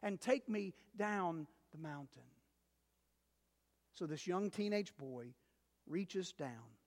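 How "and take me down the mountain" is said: higher, wheedling promise; lightly voiced sly snake, coaxing; pleading snake. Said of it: "And the snake says".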